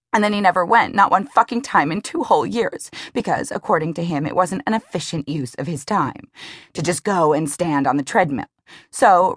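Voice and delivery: sarcastic and furious, building; bitter rant. Acted. Emmy vents to Lee about Duncan, bitter rant.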